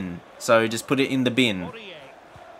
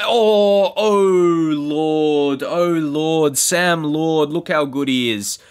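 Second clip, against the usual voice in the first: higher, louder, hammed-up excited gush; mock gushing; 3 semitones higher, 3 dB louder, much slower than usual. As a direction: gush over the player like a starstruck fan. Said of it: "when I say".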